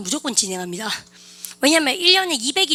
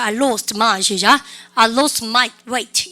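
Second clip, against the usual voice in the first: very slow, word by word, the wrong English; wrong phrase said slowly; 5 dB louder, much slower than usual. Shown as a demonstration. Teacher showing the class a wrong phrase, very slowly. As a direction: spell out the Konglish, slowly, for students to notice. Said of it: "이런 영어는 없어요".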